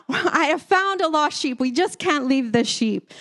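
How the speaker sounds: high-pitched mock calling out, easing off; retold yell. Wife pleads with husband over stranded sheep, mild mock yell. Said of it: "I yelled out to Malcolm".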